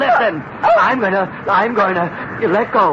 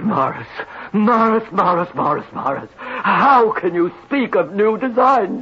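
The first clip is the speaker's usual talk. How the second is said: melodramatic moaning. Acted. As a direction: moan his name in self-pity. Melodramatic lament to partner.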